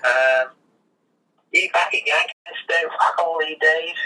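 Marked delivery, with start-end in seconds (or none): 1.5-4.0 higher, slow, lightly voiced grumbling old bloke; a hint of the angry older guy, slow and higher; grumpy old worker. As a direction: drag it out like a cranky old tradie. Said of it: "go, um, into character for me".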